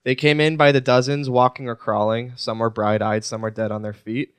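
even, measured reading of lyrics; recited lyrics. Acted. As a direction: read it out like a poem, evenly.

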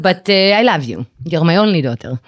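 put-on light Israeli accent as the foreign mother; a hint of an Israeli-accented mother; mother's Israeli accent. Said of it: "when you do that accent".

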